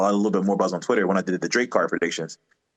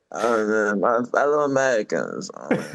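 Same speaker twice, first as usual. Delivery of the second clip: lightly voiced Obama, measured presidential address; a hint of Obama's slow address; Obama impression; slower than usual. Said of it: "A rapper doing an impression of Barack Obama".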